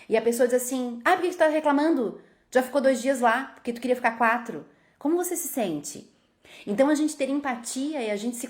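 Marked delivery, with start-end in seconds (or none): 1.0-4.7 higher, scoffing brush-off; dismissive person. Retold or imitated. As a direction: belittle their complaint. Pessoa desdenha do desabafo. (desdém de quem minimiza a tristeza do outro)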